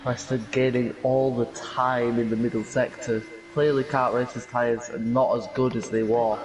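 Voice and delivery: broad Yorkshire accent; strong Yorkshire accent. Real, not acted. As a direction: commentate in a thick Yorkshire accent. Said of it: "With a strong Yorkshire accent there".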